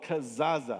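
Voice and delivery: kazaza said clearly, syllable by syllable, ka-za-za; Hebrew word. Shown as a demonstration. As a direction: model kazaza for the congregation to repeat. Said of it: "We're gonna learn some Hebrew today".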